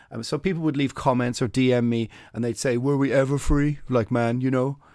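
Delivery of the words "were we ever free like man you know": put-on silly, fatuous, dopey voice. Mimicking people who comment with a question, in a put-on silly fatuous voice. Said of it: "I'm being fatuous with my silly voice".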